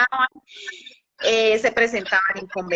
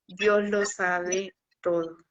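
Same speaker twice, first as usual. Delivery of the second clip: softer and slow, smiling calmly; warm smiling reply; 3 semitones lower, 5 dB quieter, slower than usual. Retold or imitated. Woman gently answers the doubter about money, softly smiling. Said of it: "con una sonrisa muy cálida le dije".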